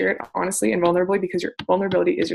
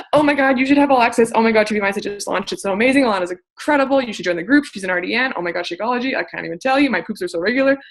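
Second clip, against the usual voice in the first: mock pushy gushing. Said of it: "Like, no, you don't do that".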